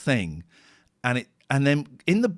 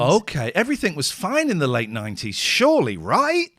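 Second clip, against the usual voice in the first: loud, climbing mock-hopeful plea; mock hopefulness; 3 semitones higher, 5 dB louder than usual. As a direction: pitch shoots up on a pretend-innocent question. Feigns hopeful disbelief about grim nineties.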